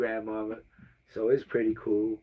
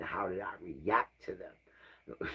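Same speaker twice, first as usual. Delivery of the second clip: whisper; 3 semitones lower, 10 dB quieter, slower than usual. Real, not acted. Reflecting on his own reactions.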